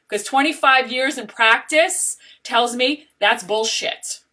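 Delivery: drawn-out, firm declaration; deliberate, insistent put-down; slow emphatic. Real, not acted. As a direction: hammer it home slowly. Calling out dishonest coaches.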